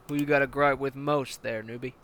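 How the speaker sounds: hard-nosed commander barking orders at a recruit; menacing armored battalion commander; tank commander. Acted. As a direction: lean in like a brutal drill sergeant.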